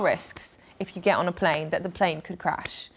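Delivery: whispering. Real, not acted. Dramatic aside about plane risk.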